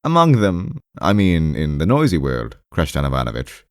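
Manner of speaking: high-pitched, mildly exasperated patient; somewhat irritated, puzzled. Acted. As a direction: press your point against an obstinate listener. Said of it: "somewhat irritated and puzzled".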